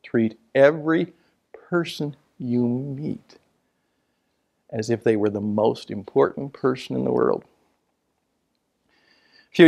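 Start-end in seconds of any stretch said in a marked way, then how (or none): 0.0-7.4 slow, weighty, with stress on "person" and "they"; emphatic slow repeat. Shown as a demonstration. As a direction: lean hard on "person" then slow down. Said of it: "repeats mentor's line".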